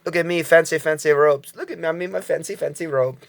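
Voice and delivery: pompous fancy aristocrat voice; lightly hammed-up posh noble; mock aristocrat. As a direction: preen like a snooty aristocrat in robes. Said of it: "I like to say".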